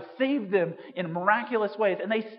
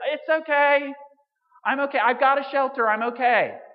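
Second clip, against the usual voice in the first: calling back reassurance; 6 semitones higher, 8 dB louder than usual. Retold or imitated.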